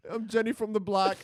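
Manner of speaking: every word of "I'm Jenny from the block" said crisply and clearly; lightly imitating a singer's clear line; crisp singer imitation. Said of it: "She says it so crystal clear".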